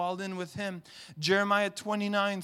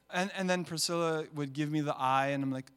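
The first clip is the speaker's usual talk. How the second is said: usual speaking voice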